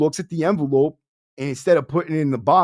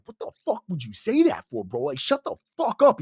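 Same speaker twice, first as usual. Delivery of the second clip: inner exasperation; 4 semitones higher, 3 dB quieter than usual. Retold or imitated. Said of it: "in my fucking thing".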